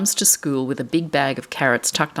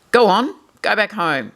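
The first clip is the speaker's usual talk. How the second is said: mild shoo; 4 semitones higher, 3 dB louder than usual. Acted. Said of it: "he shouts".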